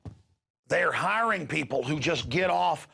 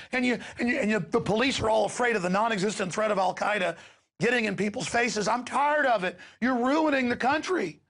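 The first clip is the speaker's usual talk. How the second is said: angry appeal; 5 semitones higher than usual. Real, not acted. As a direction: hammer the police with blame. Rant aimed at police.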